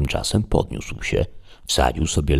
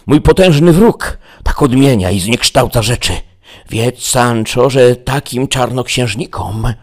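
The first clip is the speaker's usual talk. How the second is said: much higher, louder, grandiose knight; Don Quixote the knight; 4 semitones higher, 4 dB louder than usual. Acted. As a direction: declaim it like a deluded hero. Don Quixote's long speech.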